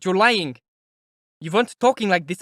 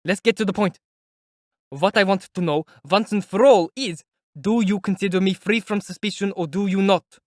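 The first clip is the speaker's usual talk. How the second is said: high, loud insistent demand; forceful raised voice; loud and earnest; 6 semitones higher, 5 dB louder than usual. Acted. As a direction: press him for an answer. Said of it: "he said, loudly and earnestly".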